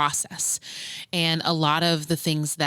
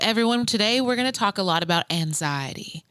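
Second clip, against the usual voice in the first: lightly voiced, higher-pitched college speech teacher; imitated speech teacher; 4 semitones higher than usual. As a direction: address the class, landing on an oddly pronounced "anxiety". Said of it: "she'd be like".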